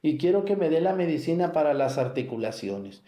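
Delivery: high imitation of an old parishioner; old lady voice. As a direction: play a pleading old woman asking for medicine. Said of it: "Hay viejillas o viejillos que me dicen". (viejita que suplica por la medicina, voz aguda imitada)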